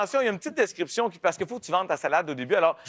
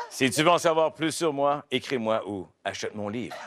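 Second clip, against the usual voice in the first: documentary narrator; 4 semitones lower than usual. Acted. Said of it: "avec ma voix de documentaire".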